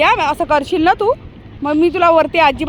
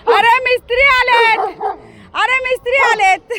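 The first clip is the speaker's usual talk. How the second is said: excited announcing; 6 semitones higher than usual. Real, not acted. Tells dog the workers have arrived.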